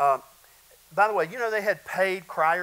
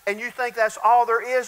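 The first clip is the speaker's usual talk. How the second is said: usual speaking voice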